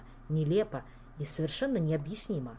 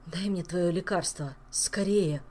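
trembling voice; slower than usual. Acted. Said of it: "дрожащим голосом сказал он".

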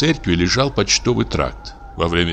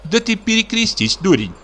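scolding wife. A narrator's reading. Жена одёргивает мужа.

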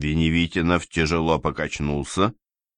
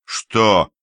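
displeased; 3 semitones higher, 3 dB louder than usual. Acted. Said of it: "недовольно обернулся".

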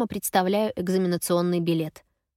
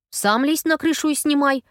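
higher, louder defiant retort; defiant snap; 7 semitones higher, 5 dB louder than usual. A narrator's reading. Effie snaps back at Gaz defiantly, higher and louder. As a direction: throw it back at him. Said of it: "огрызаюсь я с вызовом".

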